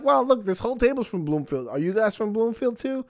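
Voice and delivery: high, loud, overeager host voice; frantic fake-cheery crowd work. Nervous comic quizzing tables about Bloomfield, high and frantic. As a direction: fake delight, pushing each question up and loud. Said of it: "I'm like".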